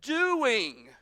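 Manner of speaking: high, loud, drawn-out protest; protesting older son. Acted. Older son pleading his case to father, loud protest. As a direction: stretch each claim slowly and forcefully. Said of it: "so he said".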